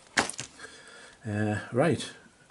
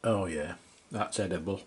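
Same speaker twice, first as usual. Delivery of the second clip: slurping while talking; sipping hot tea; 2 semitones lower, 7 dB quieter than usual. Real, not acted. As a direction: talk between slurps of soup. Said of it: "excuse the slurping noises".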